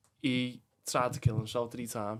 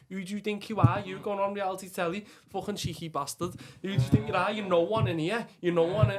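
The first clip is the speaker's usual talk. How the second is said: loud, much higher mock coach voice; mocking coaches; 8 semitones higher, 7 dB louder than usual. Boxing coaches ribbing him, loud high mocking voice. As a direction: bellow it like the boxing coaches taking the piss. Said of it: "they all sucked the fucking piss out of me".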